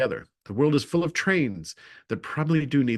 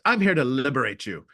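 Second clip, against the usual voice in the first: dramatic announcement. Retold or imitated. Flinging open a train compartment door to overheated passengers, a dramatic announcement. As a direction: announce yourself as the hero at the door. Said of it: "which sounds very dramatic".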